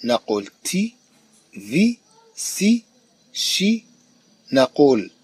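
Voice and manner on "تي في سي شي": each of تي، في، سي، شي as one unbroken syllable. Shown as a demonstration. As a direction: say تي، في، سي، شي each in a single beat. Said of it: "أنها تنطق دفعة واحدة". (نطق تي، في، سي، شي كل مقطع دفعة واحدة)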